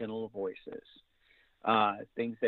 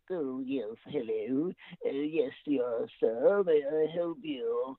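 butler voice; 2 semitones higher, much slower than usual. Shown as a demonstration. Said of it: "I did a butler's voice like this".

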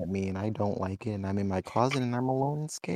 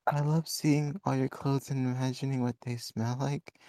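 squeaky falsetto mockery; 3 semitones higher than usual. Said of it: "That's not what I sound like".

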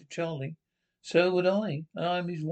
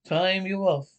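angry shout; 2 semitones higher, 6 dB louder than usual. Acted.

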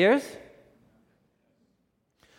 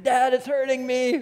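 imitated child's scream; 8 semitones higher than usual. Friend's son in a tent at night, mock scream. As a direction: lightly imitate a distressed little boy. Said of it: "his son started screaming".

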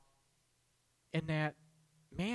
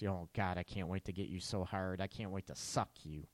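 sultry dirty talk; 6 semitones lower, 6 dB quieter than usual. Retold or imitated. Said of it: "your guy talks like this".

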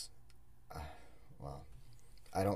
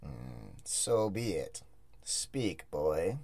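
ominous hooded stranger; much slower than usual. Acted. Xerxes commands the boy.

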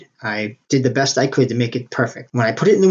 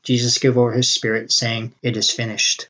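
poem recitation. Acted.

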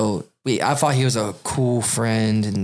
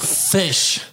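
whisper; 6 semitones higher than usual. Pretend. Silly answer whispered.

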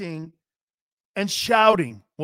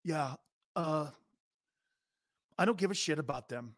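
softer, quick, dismissive mumble; Baker Mayfield impression; 8 dB quieter than usual. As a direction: brush off the fans. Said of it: "here's Baker".

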